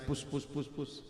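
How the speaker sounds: soft murmured puss puss puss; preacher shows how people gossip, softly; quiet gossip. Shown as a demonstration. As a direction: demonstrate secret whispering-style talk. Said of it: "very quietly".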